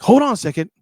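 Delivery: loud, high, stumbling hold-on; busy manager. Retold or imitated. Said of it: "And he's like".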